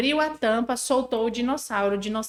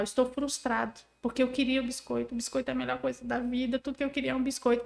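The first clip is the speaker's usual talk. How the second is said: softer, voicing the child's frustrated thoughts; child's inner frustration; 5 dB quieter than usual. Mother voicing her toddler's inner frustration, softer. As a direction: murmur the child's feelings to yourself. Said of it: "Qual é o emocional?".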